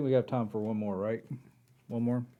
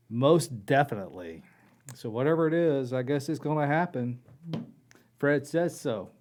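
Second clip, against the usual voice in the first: alien voice; 2 semitones higher, 3 dB louder than usual. Acted. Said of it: "Toss in that robotic voice".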